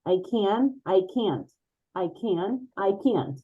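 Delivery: American accent, "can" and "can't" nearly alike; American accent, swallow the t in "can't". Shown as a demonstration. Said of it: "because Americans say".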